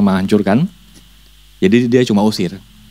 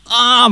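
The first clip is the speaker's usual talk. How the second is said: mock scream; 13 semitones higher than usual. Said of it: "dia sampai teriak".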